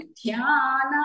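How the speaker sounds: "ధ్యాన" with a forceful breath on dh; "ధ్యాన" with aspirated onset, long aa. Shown as a demonstration. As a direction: press hard on the dh of "ధ్యాన". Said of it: "గట్టిగా ఒత్తి పలకాలి".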